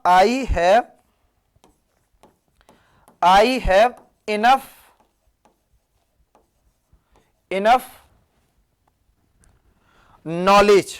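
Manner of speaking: very slow, spaced "I have enough knowledge"; slow demo. Shown as a demonstration. Teacher slowly modelling the correct sentence for students. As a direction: lay each word down with long pauses. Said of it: "इस तरीके से बोलूंगा".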